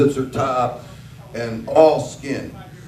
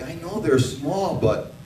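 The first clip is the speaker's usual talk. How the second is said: wife's mock outrage; 2 semitones higher, slower than usual. Wife in bed watching short track, squealing in mock shock. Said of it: "and she's like".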